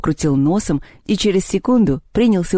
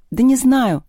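higher-pitched, irritated retort; cross; 8 semitones higher, 3 dB louder, slower than usual. A narrator's reading. Lyolya answers about opening the first one, cross. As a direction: brush the question off angrily. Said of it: "сердито ответила Лёля".

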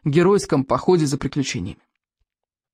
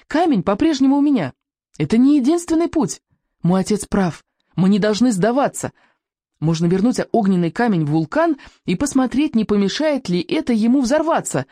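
put-on raised, insistent boy's voice; calling out; 6 semitones higher than usual. A narrator's reading. Boy begs the panicking tribe to stay, calling out. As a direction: plead up high over the crowd. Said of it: "крикнул Экинг".

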